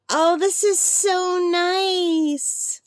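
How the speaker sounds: high, very slow, tearful gratitude; moved near tears. Real, not acted. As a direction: choke up over a kind gift, stretching the words. Overwhelmed by friend's gift.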